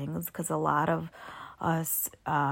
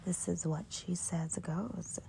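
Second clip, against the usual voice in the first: groggy just-woke-up morning voice; sleepy morning voice from bed; 6 dB quieter than usual. Real, not acted. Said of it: "this is my morning voice".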